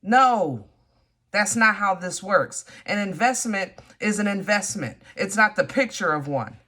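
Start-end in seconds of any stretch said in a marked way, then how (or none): 0.0-2.6 louder firm refusal; indignant no. Real, not acted. Reader telling the suitor off, louder and indignant. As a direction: put your foot down hard. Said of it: "I'm about to get mad".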